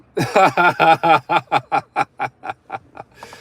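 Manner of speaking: long rapid high belly laugh; laughter. Real, not acted. YouTuber cracking up at his own mock scolding, laughing. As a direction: burst out laughing, loud and high.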